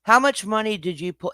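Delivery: mocking fake question; sarcastic. Real, not acted. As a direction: ask it with open sarcasm. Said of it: "And I'm being sarcastic".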